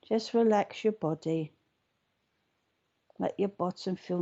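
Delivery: gentle guided meditation, long pauses between phrases. Acted. Meditation host settling listeners into their chairs, unhurried guiding voice. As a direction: ease them into relaxing, leaving room to breathe.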